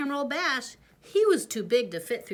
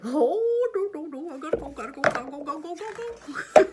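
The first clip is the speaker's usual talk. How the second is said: higher, fast frantic babble; flustered and desperate to run off; shy prince in a panic; panicky; 7 semitones higher, 5 dB louder, faster than usual. Acted. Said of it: "He's like".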